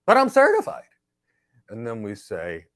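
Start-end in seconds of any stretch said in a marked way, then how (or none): 0.1-0.8 whiny mock candidate. Candidate insists on certification.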